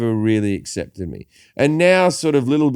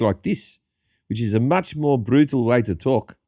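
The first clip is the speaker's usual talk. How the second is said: South African accent. Shown as a demonstration. Comedian showing the podcast host a South African accent. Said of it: "That didn't sound South African anymore".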